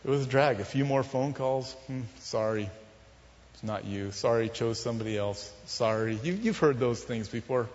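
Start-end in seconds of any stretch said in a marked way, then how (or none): 1.9-6.2 low, subdued mock apology; imitated soft rejection. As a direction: quietly mimic a regretful brush-off. Imitating rejection phone calls.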